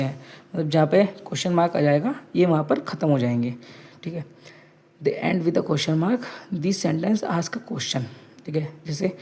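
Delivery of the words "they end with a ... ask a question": slow dictation. Shown as a demonstration. Teacher dictating definition to class.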